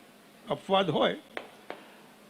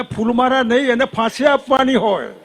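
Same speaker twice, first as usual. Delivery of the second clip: higher and louder, falling firmly on આપવાની; insistent repeated demand, louder; emphatic demand; 4 semitones higher, 4 dB louder than usual. Real, not acted. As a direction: hammer home એને ફાંસી આપવાની હોય with a hard fall.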